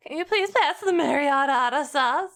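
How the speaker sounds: lightly put-on British request; posh British. Streamer revisiting the sauce joke, light posh British accent. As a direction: slip back into polite mock British. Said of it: "The British one sounds so posh".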